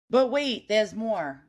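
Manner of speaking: mock infomercial announcer; infomercial pitch. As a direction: sell it like a late-night TV ad. Infomercial catchphrase repeated.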